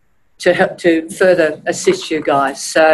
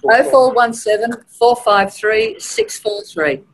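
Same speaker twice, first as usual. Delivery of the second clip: slow, drawn-out advertising read; hard sell ad; 4 semitones higher than usual. Shown as a demonstration. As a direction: sell the number like a radio ad. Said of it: "in your best advertising voice".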